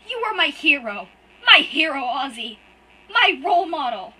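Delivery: high, loud, tearful and breaking; sobbing out betrayal at full force; crying outburst. Acted. Hurt boy screams at his brother through tears, loud and high.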